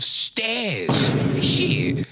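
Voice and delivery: shocked, loud and high; shocked cry. Real, not acted. Shocked at reading.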